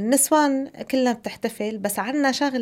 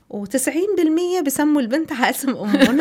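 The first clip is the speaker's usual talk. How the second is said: laughing; 5 semitones higher than usual. Real, not acted. Joking about naming after mother.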